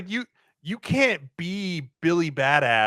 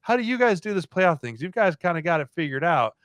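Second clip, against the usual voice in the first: mock question; 4 semitones higher than usual. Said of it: "and be like".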